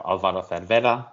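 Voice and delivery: "Cervera" as "thair-VAIR-a", Spanish style; correct Spanish pronunciation. Shown as a demonstration. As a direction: say "Alvaro Cervera" with Castilian th sounds. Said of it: "Pronounce it correctly".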